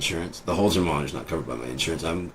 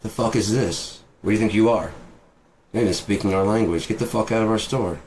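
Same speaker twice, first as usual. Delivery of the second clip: raised-pitch mock outrage; mock indignation; 5 semitones higher, 3 dB louder than usual. Store worker scolding American tourist, mock indignant. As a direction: act an offended clerk throwing someone out. Acts offended foreign store clerk.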